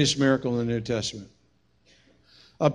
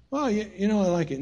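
sheepish Peter; 6 semitones higher, 6 dB quieter than usual. Retold or imitated.

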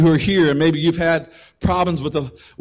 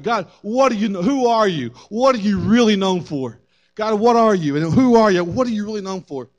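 raised, insistent questioning; Moses; 4 semitones higher than usual. Retold or imitated. Seeker asking God who he is, insistent appeal. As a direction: press each question upward, earnestly.

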